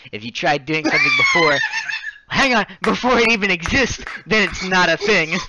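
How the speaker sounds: loud, high Nigerian accent imitation, laughing. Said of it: "thick Nigerian accents".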